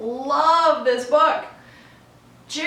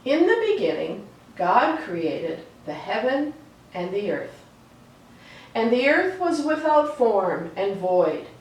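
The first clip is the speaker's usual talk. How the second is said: reading Genesis aloud. A narrator's reading. Reading the creation story to children, calm storytelling read. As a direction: let each line settle before the next.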